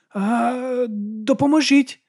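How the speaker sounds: high, slow, half-hearted cry for help; hesitant call for help. A narrator's reading. Man on the ground calling for help on demand, unsure and high. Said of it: "невпевнено крикнув він".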